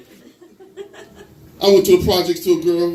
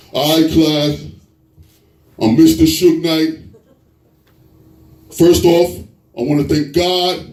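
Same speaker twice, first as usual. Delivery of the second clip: Suge Knight; 4 dB louder than usual. Acted. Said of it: "he would've been a great substitute teacher".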